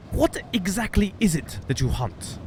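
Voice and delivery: put-on light Northern English accent for the captain; Svalbard accent. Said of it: "that's how they speak in, um, on the Svalbard Islands".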